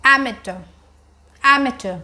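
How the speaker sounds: Amateur said as "AM-uh-tuh", stress on the first syllable; teacher says "Amateur" twice; pronunciation demo. Shown as a demonstration. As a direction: model "Amateur" cleanly, falling tune. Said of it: "tell me how do we pronounce?".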